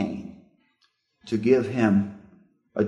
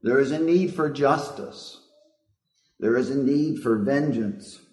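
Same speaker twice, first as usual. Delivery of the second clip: a mild, lightly voiced cry for justice; crying blood; 3 semitones higher than usual. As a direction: plead for justice as the blood, understated. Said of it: "may have sounded something like this".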